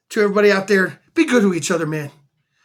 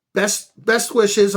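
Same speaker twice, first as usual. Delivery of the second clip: slow reading; much slower than usual. Shown as a demonstration. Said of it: "But it says".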